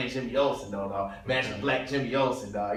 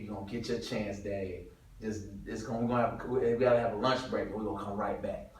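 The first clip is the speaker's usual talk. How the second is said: soft, low consoling words; gentle letdown; 3 semitones lower, 6 dB quieter than usual. Retold or imitated. Director quietly telling the extra to wait. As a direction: let him down easy. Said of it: "he says".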